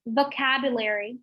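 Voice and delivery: "vocabulary" with a crisp bitten V; teacher models "vocabulary", V clearly voiced; model pronunciation. Shown as a demonstration. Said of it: "Repeat it after me".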